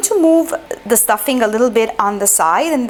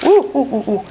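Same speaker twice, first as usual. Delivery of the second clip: hot-hands ooh. Real, not acted. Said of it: "it's too hot".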